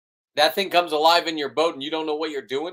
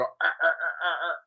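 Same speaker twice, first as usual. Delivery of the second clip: lobster noise; 3 semitones higher, 3 dB quieter than usual. Retold or imitated. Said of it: "when you grab a huge lobster and they go".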